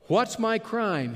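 Jacob's furious demand; angry challenge. Acted. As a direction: hurl the question at him. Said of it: "became very angry".

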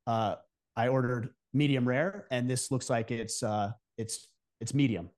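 politely sending back an overcooked steak; polite request. Shown as a demonstration. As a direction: ask nicely for a new steak, lowering the voice. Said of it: "So you very politely say".

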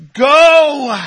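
go, cried out as a command; preacher's shout. Real, not acted. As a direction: ring it out over the room. Preacher answers his own question.

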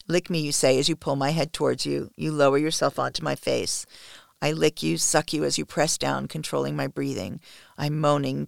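measured, even read-aloud voice; story narration. A narrator's reading. Author reading a first-person erotic story to listeners, story narration. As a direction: narrate intimately, in steady phrases.

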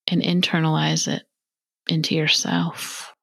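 unhurried phrases with long pauses; measured meditation voice, leaving room to breathe; guided meditation. Acted. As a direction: guide the listener gently into stillness.

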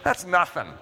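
slow, offhand puff of dismissal; dismissive scoff. Retold or imitated. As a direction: wave it off with a pfft. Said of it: "you're like".

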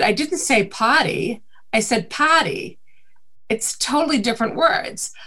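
insist, saying "party" like "potty", Boston-style; Boston accent. Retold or imitated. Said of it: "And I said".

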